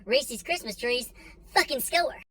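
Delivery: thrilled candy find, slow then high; gleeful about a sale; excited. Retold or imitated. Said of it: "so I'm like".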